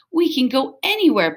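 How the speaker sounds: thrilled dog barking out freedom; excited bark. Acted. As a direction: bark it out with glee. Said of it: "barked Stanley".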